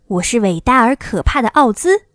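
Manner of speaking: loud, commanding wizard's proclamation; lightly voiced imposing wizard; stern Oz. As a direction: announce yourself with solemn authority. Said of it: "一个严肃的声音".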